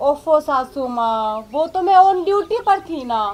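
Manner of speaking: slow, soft, sweet, drawn-out coaxing wheedle.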